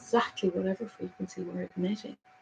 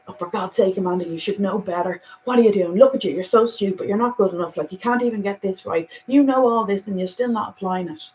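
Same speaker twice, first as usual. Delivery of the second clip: scolding herself, a bit louder; harsh inner critic; 5 dB louder than usual. Shown as a demonstration. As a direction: berate yourself like a harsh critic. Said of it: "Even saying that for demonstration".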